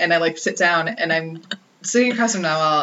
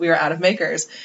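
ordinary talk, nothing marked

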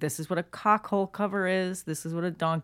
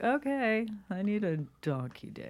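slow, reluctant, awkward, polite gentlemanly tone; 4 semitones higher, 4 dB quieter than usual. Retelling how a plumber orders a part: imitating an awkward polite gentleman. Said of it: "he doesn't wanna say it".

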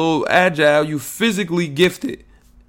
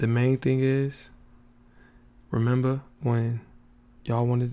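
speaking in a whisper; 5 semitones lower, 10 dB quieter than usual. Podcast host talking to listeners at the start of an episode, whispering. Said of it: "I'm whispering because I want to save my energy".

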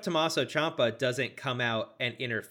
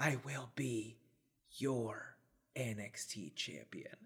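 slow, limp, drawn-out whisper; 2 semitones lower, 15 dB quieter than usual. Imitating a wrestler saying his catchphrase: whispering like Adam Cole. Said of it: "He always whispers it".

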